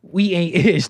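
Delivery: mocking the caller. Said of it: "He says".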